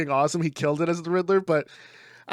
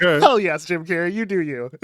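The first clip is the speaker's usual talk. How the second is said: loud, enthusiastic mock cheer; excited cheer; 2 semitones higher, 6 dB louder than usual. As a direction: cheer him on with gusto. His own cheering reaction retold.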